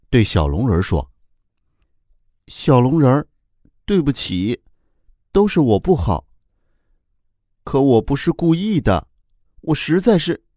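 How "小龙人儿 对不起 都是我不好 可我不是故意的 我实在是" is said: sad apology. Acted. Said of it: "哭哭心里非常的难过".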